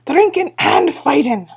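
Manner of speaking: slow, high, loud chant; the men chant their fame together; proud group shout. Acted. Feegles roar their boast.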